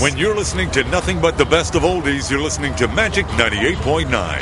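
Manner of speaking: smooth, booming oldies-station ID, stretched vowels; radio announcer voice. Shown as a demonstration. Homeless man shows his radio voice to a reporter, rich announcer read. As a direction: sell the station like a golden-voiced DJ. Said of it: "Say something with that great radio voice".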